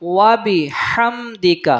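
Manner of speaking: "وَبِحَمْدِكَ" slowly, with a throaty ح; measured "وَبِحَمْدِكَ", every syllable distinct; careful recitation. Shown as a demonstration. Teacher models the word for students, careful ح in "وَبِحَمْدِكَ". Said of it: "ہا کی آواز میں پڑھنا ہے".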